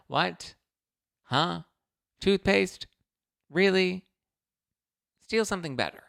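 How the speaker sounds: high, baffled questions; incredulous. Real, not acted. Complaining to viewers about Target, incredulous. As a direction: ask each one in disbelief. Ranting about locked-up toothpaste.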